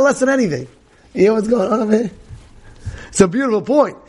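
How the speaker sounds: ordinary talk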